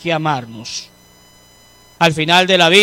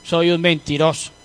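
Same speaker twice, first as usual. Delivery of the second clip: scripture quote; 4 dB louder than usual. Acted.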